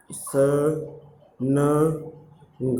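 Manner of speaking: स, न, ग said as separate sounds; letter by letter. Shown as a demonstration. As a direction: sound out each letter with pauses. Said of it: "देखिए". (अक्षर-अक्षर अलग बोलकर)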